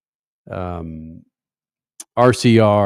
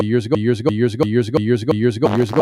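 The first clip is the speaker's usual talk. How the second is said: years ago repeated like a fading echo; echo effect; much faster than usual. Pretend. Host echoing his own words like a radio effect, fading echo.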